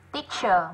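"Teacher" ending in a short ơ; "Teacher" stressed first, short schwa at the end; short weak final vowel. Shown as a demonstration. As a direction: say "Teacher" with a weak second syllable. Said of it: "là âm ơ ngắn".

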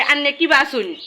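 greeting said in broad Mymensingh village dialect. Shown as a demonstration. Greeting friends in Mymensingh dialect. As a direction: show off the grandfather's Mymensingh speech. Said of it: "এটা আমার ভাষায় হবে".

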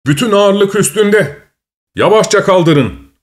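high, slow urgent call from a bystander; urgent shout. A narrator's reading. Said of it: "diye bağırdı biri". (yavaşça kaldırın diye yüksek sesle seslenen biri)

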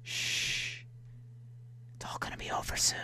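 fast creepy whisper; creepily comforting the submarine; mock soothing whisper. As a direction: hush it like a sinister comforter.

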